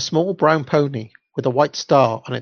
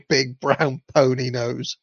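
stifling laughter; slower than usual. Real, not acted. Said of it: "something tickled me about that".

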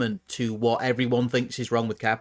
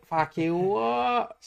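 surprised; 7 semitones higher, much slower than usual. Real, not acted. Shocked by a huge image.

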